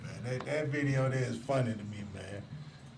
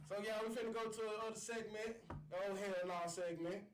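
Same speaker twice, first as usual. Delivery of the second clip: hushed intro; 3 semitones higher, 12 dB quieter than usual. Real, not acted. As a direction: ease into the segment softly. Quiet segment intro to listeners.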